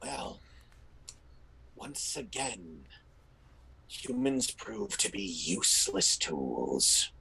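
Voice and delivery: low, slow voice heard inside their heads; slow, low, menacing game master's mystery voice; ominous disembodied voice. Acted. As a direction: drop deep and slow, starting very softly. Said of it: "you hear that voice from before go".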